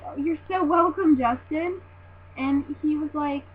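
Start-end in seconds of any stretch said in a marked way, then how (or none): 0.1-1.8 higher, louder eager reply; re-enacted fangirl politeness; starstruck gushing. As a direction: gush it to your idol.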